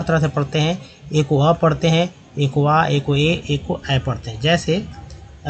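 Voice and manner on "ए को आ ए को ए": आ and ए held long and slow; modelled vowel sounds. Shown as a demonstration. Teacher models the vowels of ए slowly. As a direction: stretch each vowel slowly. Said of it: "teacher models vowel sounds".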